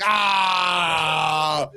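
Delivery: long, drawn-out "aah" wail; exaggerated drawn-out cry of reaction; mock wail. Mock wail on hearing the turkey news.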